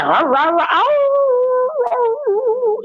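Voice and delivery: high yelping dog imitation, rah rah then ow; dog barking and howling. Imitating her dog Sandy barking at the officer, high howls. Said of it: "Sandy like".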